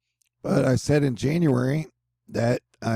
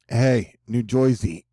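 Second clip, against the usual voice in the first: a quick, bad New Jersey accent, stretched out slow; badly faked New Jersey accent greeting the viewers; hammed-up New Jersey accent, drawn out; slower than usual. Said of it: "the worst New Jersey accent ever".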